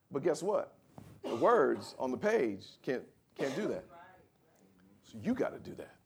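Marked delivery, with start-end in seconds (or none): none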